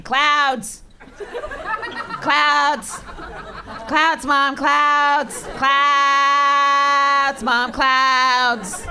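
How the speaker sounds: high mock kid shout, repeated; hammed-up little boy yelling at the window; toddler shouting. Toddler on a plane yelling to mom, mock shout. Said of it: "He starts shouting".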